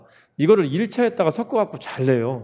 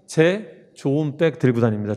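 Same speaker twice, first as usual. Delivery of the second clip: slow mnemonic. Shown as a demonstration. Teacher drills mnemonic phrase.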